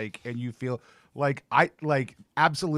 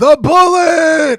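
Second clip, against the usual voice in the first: high pitched, very loud, top-of-lungs yell; 17 dB louder than usual. Retelling a man lifting a hand and yelling to the crowd: retelling a top-of-lungs shout. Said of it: "really loud at the top of his lungs".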